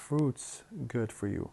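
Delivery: "fruits" with "is" reduced to the final s; merged like a plural. Shown as a demonstration. Teacher explaining in Arabic, "fruits" said as if plural. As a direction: say "fruits" like a plural, straight into "good". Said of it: "كأنما جمعنا كلمة fruit".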